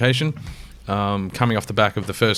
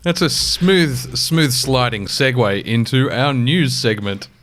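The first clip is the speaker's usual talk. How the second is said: sarcastic; 3 semitones higher, 3 dB louder, slower than usual. Real, not acted. Ironic segue announcement.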